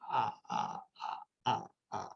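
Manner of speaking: soft, voiceless slow-motion panting; breathy runner puffs, spaced out. Shown as a demonstration. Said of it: "Gitu ya, slow motion".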